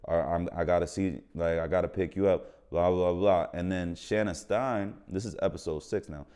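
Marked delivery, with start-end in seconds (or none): 0.0-3.5 mad dry monotone. Retold or imitated. Assistant director reading an actor's phone lines, flat and dry. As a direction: lower and softer, dead-flat monotone read. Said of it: "Deshaun was reading the lines mad dry".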